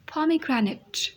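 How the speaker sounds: pomegranate said very slowly with an aspirated p; slow model word. Shown as a demonstration. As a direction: stretch pomegranate, breathy p at the start. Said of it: "फ की sound निकालनी है". (pomegranate धीरे से फ की आवाज़ के साथ)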